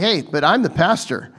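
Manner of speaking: mock boastful pastor. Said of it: "like, super all hyped up".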